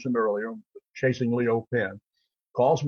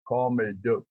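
John Wayne impression. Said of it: "you can mimic a lot of people".

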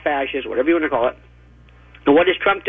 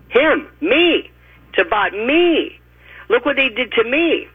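mocking self-pity; 5 semitones higher than usual.

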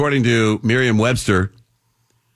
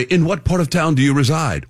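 stilted formal phrasing, a touch higher; clumsy formal; 5 semitones higher than usual. Acted. Host demonstrating an awkward sentence to co-host, stilted formal. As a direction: say it as awkwardly proper wording. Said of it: "that sounds clumsy and awkward and stupid".

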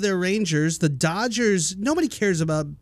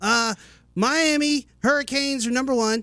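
a somewhat higher, lightly put-on southern caller twang; 6 semitones higher than usual. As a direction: play the caller like a good-old-boy fan. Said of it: "making Caesar sound like a redneck".

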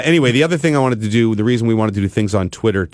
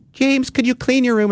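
much higher, sing-song mother; mom's voice. Retold or imitated. Mother asking James to tidy, high imitated mom voice. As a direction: mimic mom asking nicely.

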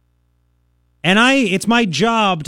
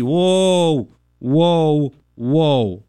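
lower, drawn-out mock gasp of offense; mock shocked whoa; 3 semitones lower, much slower than usual. Host mocking offended players with a mock shocked whoa. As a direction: pretend to clutch pearls over a word.

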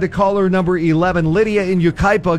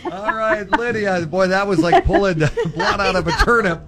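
laughing; 3 semitones higher than usual. Real, not acted. Host laughs while talking.

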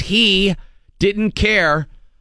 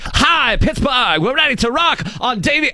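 much higher rock-singer greeting to the crowd; high, bright-eyed arena welcome; rock-singer impression; 10 semitones higher than usual. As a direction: imitate the singer hyping Pittsburgh in a promo. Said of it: "I'm the singer".

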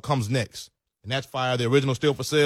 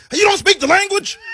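high, loud mock yell at the driver; Trump supporter rant; 7 dB louder than usual. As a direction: bellow it like an angry bigot. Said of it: "I start talking like a Trump supporter".

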